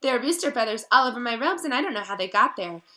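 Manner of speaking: high, loud and rushed panic; a frightened girl losing her grip; desperate diary pleas building to a cry of Tom; frantic Ginny. Acted.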